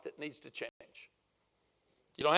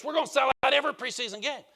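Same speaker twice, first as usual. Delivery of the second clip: excited owner; 5 semitones higher, 4 dB louder, faster than usual. Retold or imitated. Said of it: "I'm so excited about this".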